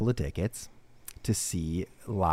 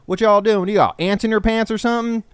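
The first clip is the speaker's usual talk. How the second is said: retelling the Uber driver's jab at his passengers, mock scornful; imitating the Uber driver; 10 semitones higher, 4 dB louder than usual. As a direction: ham up the pushy driver's taunt. Rude Uber driver voiced in story.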